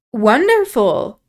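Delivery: drawn-out mock delight on wonderful; lightly hammed-up wonder; exclaimed. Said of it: "I exclaimed".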